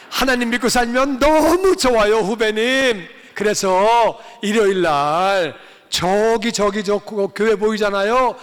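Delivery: an elder inviting his school junior to church, eager and insistent. Retold or imitated. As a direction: warmly press a junior to come to church.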